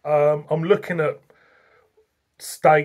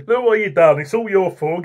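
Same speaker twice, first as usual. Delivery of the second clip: ordinary talk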